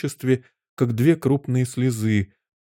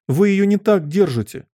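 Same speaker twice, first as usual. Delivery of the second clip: high, urgent warning; alarmed cry; 8 semitones higher, 4 dB louder than usual. A narrator's reading. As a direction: cry out to stop her. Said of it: "закричала Алиса". (тревожно вскрикивая)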